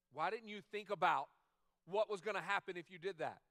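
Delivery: put-on loud, exasperated scolding of a child; a parent scolding a kid who messed up. Parent scolding a child, loud and exasperated. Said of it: "the tone that I use".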